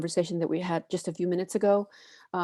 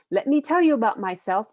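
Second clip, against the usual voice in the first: lightly voiced spunky kid, a bit louder; 3 semitones higher, 6 dB louder than usual. Reading a first grader's introduction from a picture book, spunky. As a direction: read it with a little oomph. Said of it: "you gotta read it in that spunky voice".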